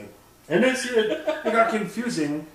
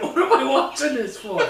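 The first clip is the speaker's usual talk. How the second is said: high, loud quote through laughter; high, loud laughing question; laughing disbelief; 10 semitones higher, 6 dB louder than usual. Real, not acted. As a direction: laugh while asking in disbelief. Laughing mock complaint.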